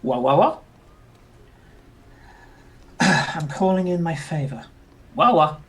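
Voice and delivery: muffled comlink voice. Acted. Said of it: "through the comlink".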